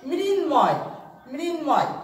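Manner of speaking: মৃন্ময় with the ম clearly sounded, মৃন-ময়; model pronunciation. Shown as a demonstration. Teacher to class, sounding out মৃন্ময়. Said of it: "মটার কিন্তু উচ্চারণে আসছে".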